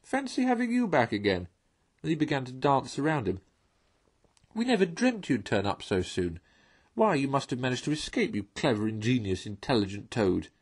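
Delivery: high, gushing little mole; mock flattery, dancing about; delighted Mole. Mole greets returning Toad.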